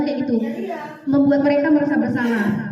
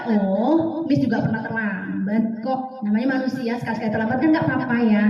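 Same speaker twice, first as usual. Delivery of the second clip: gentle reassurance; 5 semitones lower than usual. Shown as a demonstration. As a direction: comfort the late pupil warmly. Right way: reassuring the pupil.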